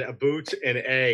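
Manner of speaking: mock Canadian "aboot"; teasing Canadian accent. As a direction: imitate a Canadian saying "about". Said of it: "have Canadian accents".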